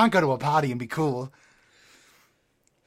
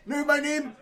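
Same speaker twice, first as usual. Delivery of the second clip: Joker voice; 8 semitones higher than usual. Acted. Joker character.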